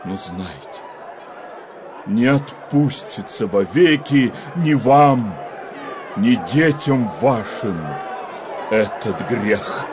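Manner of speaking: rising, thundering rebuke; prophetic denunciation. Acted. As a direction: denounce the people like a prophet.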